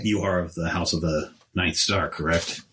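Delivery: smooth flatterer. Acted. Player in character, lower.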